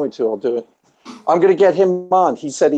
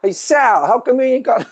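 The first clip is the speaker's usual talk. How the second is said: higher, hammed-up New York movie character; New York accent; 9 semitones higher than usual. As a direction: do the pizzeria tough guy from the movie. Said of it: "that's my New York".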